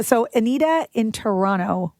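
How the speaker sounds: ordinary delivery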